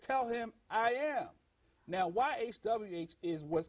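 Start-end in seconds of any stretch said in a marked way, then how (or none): 0.0-1.3 solemn declaration. Retold or imitated. Voices God's answer in scripture.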